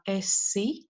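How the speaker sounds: "esi" with a narrow, close first vowel. Shown as a demonstration. Lecturer contrasting Latvian vowels, narrow "e" in "esi". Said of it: "it is pronounced as a narrow e".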